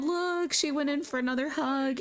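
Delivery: high, excited exclamation; thrilled narrator pointing at the screen; delighted. Real, not acted. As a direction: gush as she goes in for another hug. Narrator delighted by another hug.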